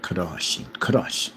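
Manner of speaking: "Crushing, crush" with the R lightly rolled; Russian-style rolled R. Shown as a demonstration. Loving how Russians talk, "crush" with rolled R. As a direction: savor a little tongue roll in "crush". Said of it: "I love that".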